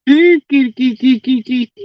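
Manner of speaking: high sing-song kitty call; calling a cat. Real, not acted. Calling an animal over.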